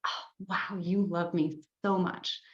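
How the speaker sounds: soft, tender oh wow; really sweet. Shown as a demonstration. Coach showing a reply to a loving partner, really sweet. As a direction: say it softly, sweetly touched. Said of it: "or really sweet".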